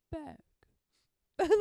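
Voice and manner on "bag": "Bag" with a careful standard short A; corrected vowel. Shown as a demonstration. Catching the accent slipping out, a carefully corrected "Bag". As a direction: catch yourself and say "Bag" without the Wisconsin vowel. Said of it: "I will catch myself and be like".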